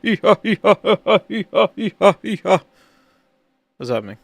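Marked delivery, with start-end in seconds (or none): 0.0-2.6 loud high hee-haw bray; donkey bray. Acted. Donkey bray opening the stream.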